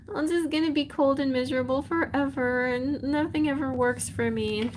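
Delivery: high-pitched self-pitying whine; mock crying. Cinderella despairing in the garden, mock crying. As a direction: wallow in hammed-up misery. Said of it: "starts crying".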